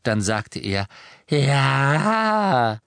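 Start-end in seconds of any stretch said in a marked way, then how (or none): 1.3-2.8 loud, croaky one-word admission; a bitter elf confessing; the house-elf admitting he took the locket; croaking elf. A narrator's reading.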